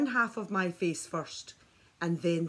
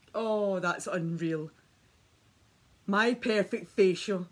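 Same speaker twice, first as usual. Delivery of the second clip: slow, louder and thrilled; delighted; 3 semitones higher, 7 dB louder, slower than usual. Real, not acted. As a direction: gush with real excitement. Delighted by facial results.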